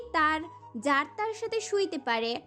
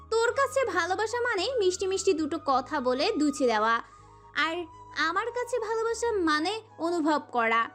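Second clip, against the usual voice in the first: scornful tirade in a higher character voice; enraged; 3 semitones higher than usual. A narrator's reading. Prohelika rages at her captive about what love means, furious and scornful. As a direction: lash out with contempt, pitch swinging up. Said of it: "প্রহেলিকা প্রচণ্ড মাত্রায় ক্ষেপল".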